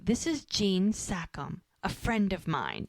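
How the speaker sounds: slow introduction with a hint of menace; retold sinister. Introducing her henchman to an enemy, mildly sinister. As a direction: imitate a sinister boss, unhurried and controlled. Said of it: "she's always so sinister".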